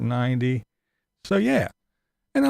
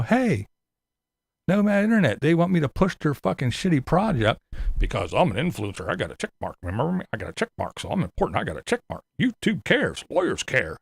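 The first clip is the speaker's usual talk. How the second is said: mocking Tater. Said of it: "can he take five minutes and go".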